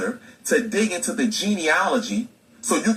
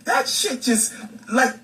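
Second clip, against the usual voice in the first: mocking critics; 4 semitones higher than usual. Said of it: "they be like".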